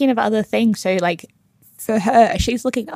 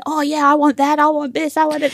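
lightly imitated chattering audience, higher pitch; mock greedy snack chatter; noisy moviegoers; 5 semitones higher than usual. Imitating people behind her at The Lion King, lightly mocking. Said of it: "people behind us were opening chip packets and saying".

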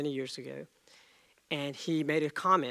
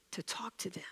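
whisper; 3 semitones higher, 11 dB quieter than usual. Real, not acted. Whispered sermon point.

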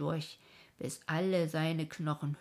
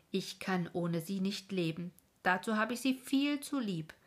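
firm voice; 3 semitones higher than usual. Acted. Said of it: "sagte mit fester Stimme".

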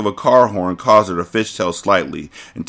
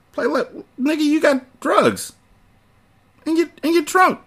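mocking aside. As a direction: jeer at the agent in a squeaky voice.

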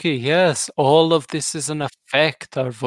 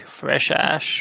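bad Sean Connery. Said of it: "I'm doing a bad Sean Connery".

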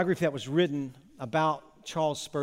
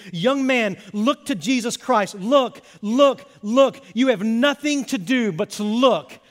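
raised, louder pulpit cry; fervent Methodist shout, louder on look; shouting preacher; 7 semitones higher, 8 dB louder, slower than usual. Acted. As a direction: call out to the young man. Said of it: "he shouted as only a primitive Methodist could do".

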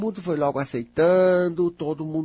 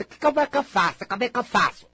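high, fretful imitation of someone asking for help; imitating a nervous listener, pitched high; mock anxious asker; 8 semitones higher, 4 dB louder, faster than usual. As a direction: mimic the worried person begging how.

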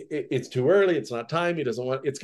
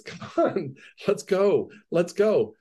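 impatient nagging, pitch raised; a pestering messenger hurrying the teacher along; antsy pestering; 4 semitones higher, slower than usual. Retold or imitated. Messenger pestering Jesus to hurry, antsy and impatient. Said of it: "he's kind of antsy and pestering Jesus".

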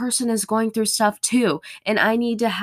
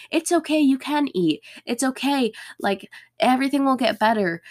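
put-on reassuring boyfriend; 7 semitones higher than usual. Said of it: "he's probably going to tell me".

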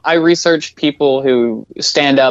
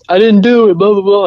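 mocking denial; 7 semitones higher, 4 dB louder than usual. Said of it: "watching his interviews and stuff".

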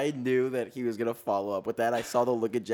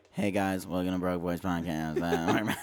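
mimicked podcast intro; 5 semitones lower, slower than usual. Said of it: "when the podcast starts out, Joey".

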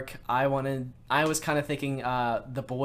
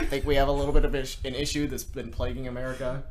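Barack Obama impression; 3 dB louder than usual. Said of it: "my Barack Obama voice".

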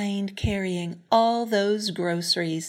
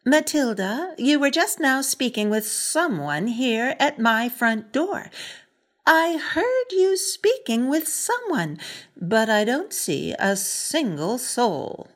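stern neighbor; 3 semitones higher, 4 dB louder than usual. Acted. Neighbor questioning Matilda.

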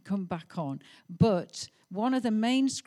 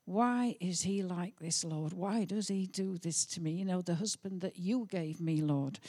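mock chuntering; 4 dB quieter than usual. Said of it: "I'm chuntering".

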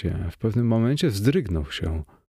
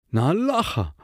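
second „Allaha” pitched higher; louder astonished call; 7 semitones higher than usual. A narrator's reading. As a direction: repeat it higher, more amazed. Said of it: "zawołał". (wyższe, bardziej zdumione „Na Allaha!”)

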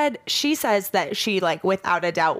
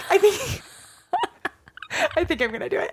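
giddy laughing; 11 semitones higher, faster than usual. Retold or imitated. Giddy tattoo decision retold.

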